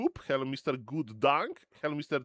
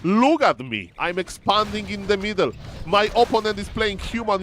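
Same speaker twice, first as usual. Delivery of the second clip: higher, louder mock player voice; imitating Grab; 4 semitones higher, 4 dB louder than usual. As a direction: tease the caster as the player would. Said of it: "Grab is says".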